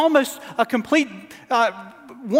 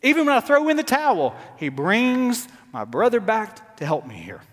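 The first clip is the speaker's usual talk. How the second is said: exasperated Moses; 2 semitones higher than usual. Acted. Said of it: "Moses, even here, is saying".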